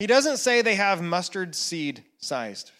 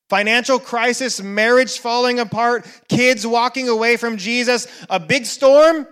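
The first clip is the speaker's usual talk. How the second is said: rising louder into a forceful climax; building intensity; 2 semitones higher, 5 dB louder than usual. Acted. Preacher listing life's storms, growing louder to the peak. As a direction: stack the crises until the storm hits.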